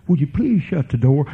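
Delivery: gently asking, a courteous please; polite request. Shown as a demonstration. Parent asking child politely to shut the door. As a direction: ask it kindly, no edge. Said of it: "You don't have to talk like that".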